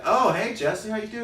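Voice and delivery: acted friendly greeting. To the neighbor on Christmas Eve, high acted greeting. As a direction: call it out high and loud.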